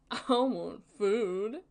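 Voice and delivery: slow, drawn-out questioning echo; mimicking the TV. Viewer echoing the TV's demand for food, slow puzzled mimicry. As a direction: stretch the words out, rising as if puzzled.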